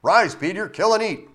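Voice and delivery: high, loud commanding call; voice of God. Acted. God repeating the command to Peter, high and loud. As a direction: order Peter again. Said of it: "Three times".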